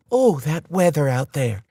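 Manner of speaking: a neighborly South Dakota accent, lightly voiced; chatty South Dakota accent. A narrator's reading. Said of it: "with her heavy South Dakota accent".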